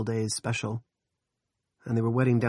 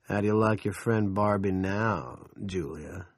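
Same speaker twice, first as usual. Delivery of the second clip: gloating. Acted. Big Jim gloating at Julia.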